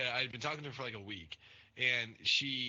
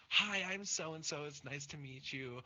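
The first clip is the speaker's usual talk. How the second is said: weird introduction. Retold or imitated. Date introducing herself to his parents, imitated weird greeting. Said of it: "like, weird".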